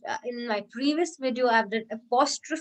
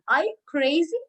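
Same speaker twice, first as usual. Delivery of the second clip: rhetorical question; 5 semitones higher, 4 dB louder than usual. Shown as a demonstration. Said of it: "in the way you're speaking".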